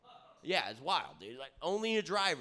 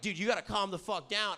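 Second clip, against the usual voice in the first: raised-pitch mock urging; imitated friends' telling-off; 4 semitones higher than usual. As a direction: act out a buddy urging restraint. Voices friends telling him off.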